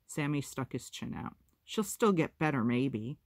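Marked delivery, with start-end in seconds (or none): 1.6-3.2 a louder, stubborn insistence; firm declaration. Acted. Sammy insisting to his siblings that Mama will recover, declared loudly. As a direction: declare it with the chin stuck out. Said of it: "he declared".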